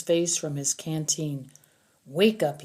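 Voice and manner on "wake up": commanding. Acted. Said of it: "he commanded".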